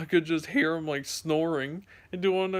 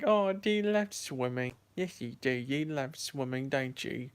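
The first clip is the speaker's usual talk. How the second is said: put-on baby voice. Owner to the swimming dog, cooing baby talk. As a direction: coo at a little dog as to a baby. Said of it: "baby voice to him".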